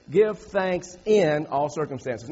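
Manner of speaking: slow reading, leaning hard on "in"; "in" stretched and stressed, words spaced out. Shown as a demonstration. Preacher quoting scripture to the congregation, stressing "in". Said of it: "the emphasis is in".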